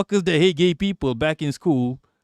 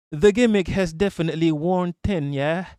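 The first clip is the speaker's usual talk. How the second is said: put-on British accent; 2 semitones higher than usual. Streamer reading a comment aloud in an attempted British accent. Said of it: "let me do a, a, a British accent".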